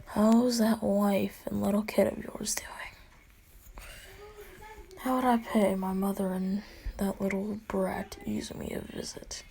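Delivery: whispered taunt, breathy and close; menacing whisper. Acted. Villain taunting All Might about his family, whispered. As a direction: hiss the threat under your breath.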